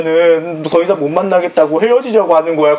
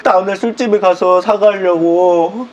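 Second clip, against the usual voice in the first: tearful whining; 2 semitones higher, slower than usual. Acted. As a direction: explain through hammed-up tears, dragging the words. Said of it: "왜 또 울어?". (울먹이며 변명)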